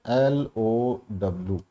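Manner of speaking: letters drawn out slowly and joined together; slow, flowing letter names like cursive; joined-up spelling. Shown as a demonstration. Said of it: "तो ये मैंने एक साथ लिख दिया".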